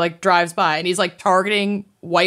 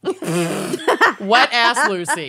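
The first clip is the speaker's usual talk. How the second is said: slow, laughing drawn-out tease; 3 semitones higher, much slower than usual. Real, not acted. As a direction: stretch the nickname while laughing. Teasing nickname, laughing.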